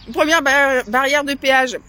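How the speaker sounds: mouth open. Real, not acted. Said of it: "Je vous parle la bouche ouverte".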